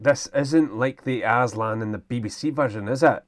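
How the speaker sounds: put-on Scottish accent for an actor impression. Shown as a demonstration. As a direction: demonstrate the line in a Scottish accent. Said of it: "go deep down in the Scottish accent".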